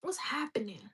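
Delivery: a breathy whisper to herself. Acted. To viewers, asking what's happening in a whisper. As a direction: hush it like a secret. Whispered self-question to camera.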